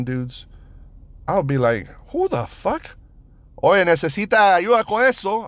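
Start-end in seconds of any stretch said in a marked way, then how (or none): 2.1-5.5 high, raised-voice holler; imagined calling out. Acted. Imagined Cuban dudes yelling at him, high holler. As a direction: call out high in alarm, then in Spanish.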